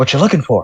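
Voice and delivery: whispered character voice. Playing an invisible character who sneaks up beside someone: character whispering. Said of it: "he's gonna whisper".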